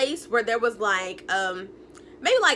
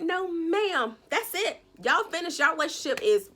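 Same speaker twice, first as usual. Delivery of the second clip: higher, half-crying disbelief; mock wailing dismay; 4 semitones higher than usual. Real, not acted. Viewer hearing the film called stupid, mock crying dismay. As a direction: wail it like your heart broke.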